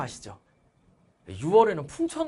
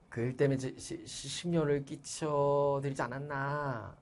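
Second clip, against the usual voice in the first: stammering apology; 8 dB quieter, slower than usual. Acted. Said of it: "이 말을 더듬는 걸 보면은".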